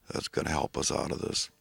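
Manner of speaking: soft whispered prayer. Real, not acted. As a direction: breathe it out softly like a prayer. Unvoiced prayerful ending.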